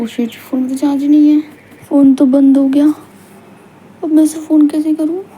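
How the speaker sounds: stranded with a dead phone and getting worried; worried dismay. Acted. Phone dead, stranded alone at night. (घबराई, परेशान आवाज़)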